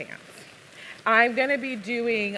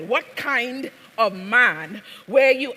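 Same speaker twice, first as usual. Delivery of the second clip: louder, slow, stress on were; loud demand; 3 semitones higher, 6 dB louder, slower than usual. Acted. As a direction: demand it slowly, leaning on were. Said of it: "she speaks in an accent".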